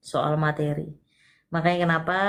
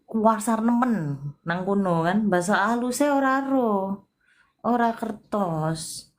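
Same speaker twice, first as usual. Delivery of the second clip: Solo Javanese; slower than usual. Retold or imitated. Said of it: "Kalau bahasanya wong Solo iku".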